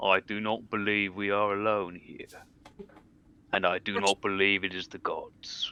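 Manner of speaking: quiet mumbling, muttered under his breath. Voicing a character staring into the darkness: mumbling under his breath. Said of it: "just mumble under his breath".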